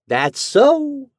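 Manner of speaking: high, loud drawling landlady; landlady's drawl. A narrator's reading. Landlady telling the lodger the house history. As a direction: gossip about the dead man.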